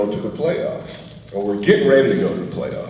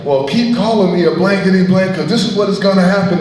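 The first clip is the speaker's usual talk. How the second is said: mild mock yell, rushed at the end; half-yelled taunt while rounding the bases; a light retold yell back at the pitcher; 7 semitones higher, 4 dB louder, faster than usual. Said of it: "I'm yelling the same thing he was yelling at me".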